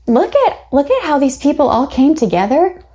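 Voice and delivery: high, gushing mock admiration; mock awe. Reader imitating her own awe at the book, high and gushing. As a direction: gush about the townsfolk like a starry-eyed fan. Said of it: "I was like".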